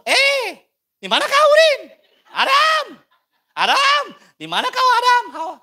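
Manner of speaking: put-on high, loud Ambon-accent yelling; mock Ambon accent, very high and loud. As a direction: holler for Adam in an Ambonese accent. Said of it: "Atau orang Ambon".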